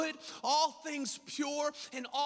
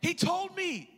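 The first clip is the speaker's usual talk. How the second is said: defensive reply; 6 semitones higher, slower than usual. Retold or imitated. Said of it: "I'm like".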